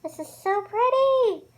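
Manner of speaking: slow, high, dreamy admiration; swooning. Real, not acted. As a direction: melt over how pretty. Admiring the look.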